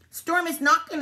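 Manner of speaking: high, loud sheep alarm; crying out. A narrator's reading. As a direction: cry it out in worry. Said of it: "the sheep cried".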